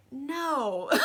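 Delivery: a flat no that breaks into a laugh. Retold or imitated. Louis refusing Lestat, laughing as he says no. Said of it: "Louis is like".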